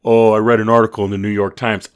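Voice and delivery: mimicking a self-important reader, emphatic; mock show-off. Mocking someone showing off their reading, mock boastful. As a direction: parody a humblebrag. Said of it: "Who are you showing off for?".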